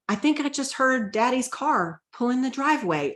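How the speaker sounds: lightly voicing a small child asking hopefully; young child's voice.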